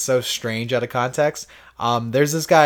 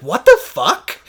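high, louder shocked outburst; 7 semitones higher, 6 dB louder, slower than usual. Retold or imitated. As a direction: gasp it at the huge bill. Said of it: "And you're like".

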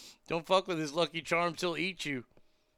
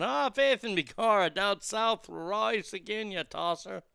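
mock Irish accent; 3 semitones higher than usual. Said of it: "The accent would be spot on".

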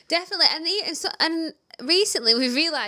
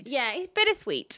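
whispering. Real, not acted. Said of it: "whispered aside".

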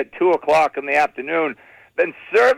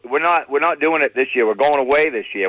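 ordinary delivery

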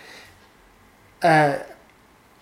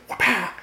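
higher, sudden whip-crack noise; imitated whip crack; 5 semitones higher than usual. Describing a motor-chain whip, imitated whip crack. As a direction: mimic a whip lashing out.

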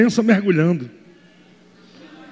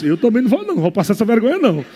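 the body talking; 3 dB quieter, much faster than usual. Acted. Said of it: "Aí o corpo diz".

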